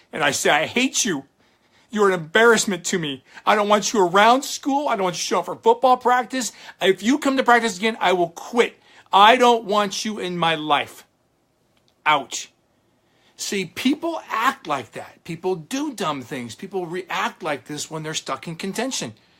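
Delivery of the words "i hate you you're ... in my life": screaming, high, furious, raging yell. Retelling what he once screamed at his dad: imitating himself yelling. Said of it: "I scream and yell at him".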